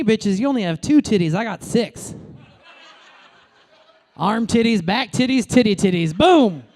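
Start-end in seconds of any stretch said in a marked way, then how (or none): 6.2-6.6 a loud punchline bang; boom shout. Real, not acted. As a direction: slam the word home.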